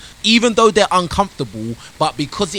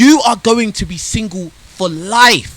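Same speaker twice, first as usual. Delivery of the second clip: slow, louder, word-by-word pronouncement; emphatic verdict; 3 semitones higher, 5 dB louder, slower than usual. Real, not acted. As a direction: pronounce SINGLE FOR LIFE slowly and emphatically, like a sentence.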